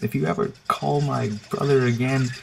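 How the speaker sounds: mildly threatening retold warning; a touch of protective menace, imitated; imitated defensive sister. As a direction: warn them off like a protective sister. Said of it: "just being the defensive sis-, sister".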